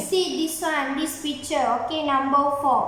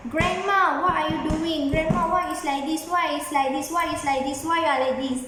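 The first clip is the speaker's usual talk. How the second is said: louder mock shout; 2 semitones higher, faster than usual. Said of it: "shout louder".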